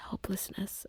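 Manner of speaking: "Helplessness" as a faint, high breath. Real, not acted. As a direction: lift "Helplessness" up and let it almost vanish. Repeats the word, overcome.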